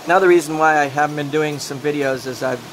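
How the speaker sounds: speaking without dentures; gummy toothless speech. Real, not acted. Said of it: "you can't understand me as much without my dentures in".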